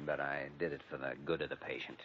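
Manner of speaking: hushed, quick apology; almost whisper it, hurried. Acted. Apologetic, voice drops.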